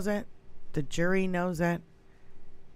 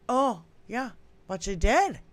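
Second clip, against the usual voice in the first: ordinary delivery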